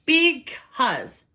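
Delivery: loud, high emphatic Because; emphatic hen. Acted. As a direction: insist on it. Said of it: "said Missus Chicken".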